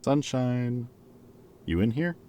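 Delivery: looking for someone in another room; calling out. Acted. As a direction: call out to find him. Calling out to find Sunburst.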